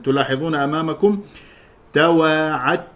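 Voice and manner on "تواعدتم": "تواعدتم" said tawaa'attum, dal assimilated into a doubled t; dal merged into ta. Shown as a demonstration. Teacher modelling for learners, "تواعدتم" with full idgham as tt. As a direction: say "تواعدتم" with no d, one held tt. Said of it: "والصواب إدغامها في التاء".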